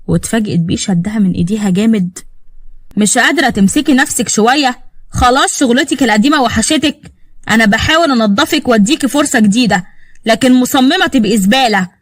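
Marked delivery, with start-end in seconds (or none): 3.0-11.9 angry accusation. Acted. Husband accuses and insults wife.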